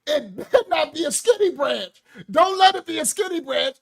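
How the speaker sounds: a hint of a stern grandma yelling; grandma ordering. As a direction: send him for the switch like a strict grandma. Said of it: "She said".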